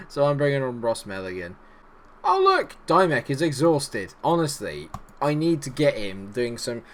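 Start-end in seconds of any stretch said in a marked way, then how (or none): none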